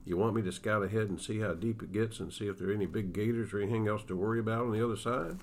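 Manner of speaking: steady storyteller reading a Western aloud; story narration. Acted. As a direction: read it like an author sharing his book on the radio. Author reads his novel aloud.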